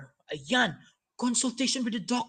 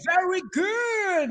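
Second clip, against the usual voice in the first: excited praise; 4 semitones higher, slower than usual. Real, not acted. Host praises the students.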